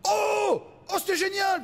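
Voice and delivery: mock overexcited praise; gushing spectator. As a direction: gush like a thrilled old lady. Old audience gushing afterward.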